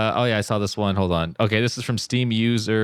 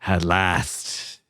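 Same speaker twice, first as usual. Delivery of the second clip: spooky voice; 4 semitones lower, slower than usual. Acted. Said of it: "Do it with a voice".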